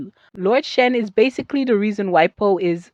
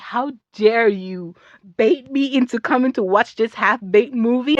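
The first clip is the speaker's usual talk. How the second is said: retold outrage; 4 semitones higher than usual. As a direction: act out indignant disbelief.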